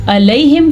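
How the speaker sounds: "علیہم" opening on a simple hamza a; plain a, no ayn. Shown as a demonstration. Teacher contrasting two words, "علیہم" without ayn. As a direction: say "علیہم" as ilayhim-like alayhim, no throat squeeze. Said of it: "علیہم کا معنی کچھ اور ہوتا ہے".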